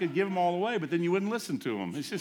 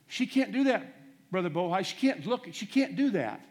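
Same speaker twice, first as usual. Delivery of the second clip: protesting husband; 5 semitones higher, 4 dB louder than usual. Retold or imitated. Husband tells the preacher his wife can't look, pleading. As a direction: plead with the preacher that she cannot.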